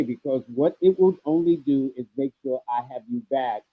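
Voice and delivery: garbled robotic mic voice; distorted robot voice over line. Real, not acted. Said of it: "it has turned into a robot's voice in a way".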